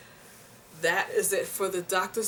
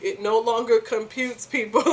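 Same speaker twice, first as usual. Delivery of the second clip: louder, frustrated declaration; exasperated outburst; 4 semitones higher, 8 dB louder than usual. Real, not acted. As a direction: throw up your hands in mock despair. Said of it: "My brain does not compute".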